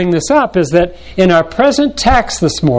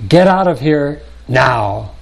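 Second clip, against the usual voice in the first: urgent emphasis; slower than usual. Shown as a demonstration. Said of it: "express something with emphasis, intensity, or urgency".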